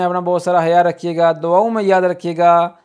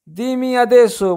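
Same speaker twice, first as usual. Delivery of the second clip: slow, careful demo of Italian, pitched up; slow teaching model; 5 semitones higher, slower than usual. Shown as a demonstration. Teacher slowly models phrase for parents. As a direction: say it slowly so parents can copy. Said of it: "teacher demonstrates Italian phrase slowly".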